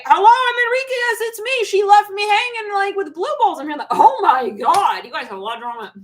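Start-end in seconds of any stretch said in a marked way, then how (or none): 0.0-3.6 much higher and louder, playful mock whine; a hammed-up jilted guy complaining; Enrique impression. Enrique complains he was left hanging, in a high, loud mock whine. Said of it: "if you're Enrique".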